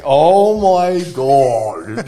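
loud, drawn-out mock panic; hammed-up anxious outburst; anxious dread. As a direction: wail it high and slow, retelling sudden anxiety. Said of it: "Just anxiety going to your head".

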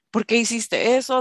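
mild mock yell; retold yell. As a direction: snap at her like an angry dad. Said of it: "still yelling at me".

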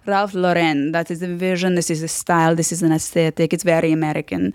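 Italian fashion snob making pronouncements; Italian-accented verdict, point by point. Retold or imitated. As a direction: lecture on style in an Italian accent. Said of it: "an impression of him".

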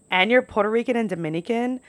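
imitating a taken-aback questioner; mock disbelief. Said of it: "that's how people respond to me".

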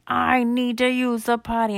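put-on high, loud kid voice; urgent little boy. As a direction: plead urgently as a small boy. Bar urgently needs toilet.

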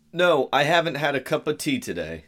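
a light put-on English accent. Cohost reading Annie's quote in a mild English accent. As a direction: read it with a hint of an English accent. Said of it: "Going for the accent, man?".

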